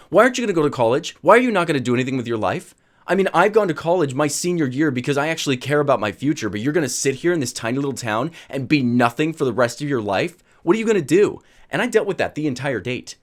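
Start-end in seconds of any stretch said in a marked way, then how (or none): 0.1-11.4 retold nagging questions, rapid at the start; drilling interrogation. Girlfriend grilling boyfriend about college, pushy imitation. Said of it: "She starts drilling into me".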